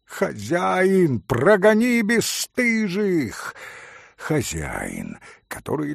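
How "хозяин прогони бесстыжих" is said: high, drawn-out call to the innkeeper; indignant roar. A narrator's reading. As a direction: call out in outrage, pitch climbing. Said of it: "взревел вдруг пан Врублевский". (возмущённый возглас)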